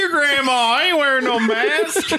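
mock Southern anti-masker. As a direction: play a ranting anti-mask Southerner in an overblown Southern accent. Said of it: "in the southern thing about covid".

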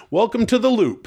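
mock ominous. Ominous pronouncement.

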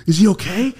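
high, squeaky fretting; worried confusion. Retold or imitated. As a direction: pitch it way up, comically concerned. Acting out his worried misreading.

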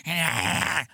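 tense, wordless "ah"; tense energy noise. Shown as a demonstration. Showing how wound-up people are now, tense wordless cry. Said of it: "people's energy now is very, like".

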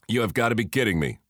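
quick, exasperated exclamation; fast incredulous outburst; exclaiming. Acted. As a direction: rattle it off in disbelief. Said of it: "exclaimed Julius".

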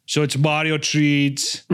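put-on lightly accented channel-update voice; mock-sincere influencer announcing personal growth; Hitler as earnest vlogger. Vlogger tells fans about a big channel change, mock earnest.

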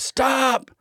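sharp high shout of Stop!; retold yell. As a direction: bark it out loud and high like a director cutting in. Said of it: "James Cameron's yelling at me".

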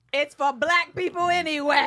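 loud quote. Retold or imitated. Quoting sketch line.

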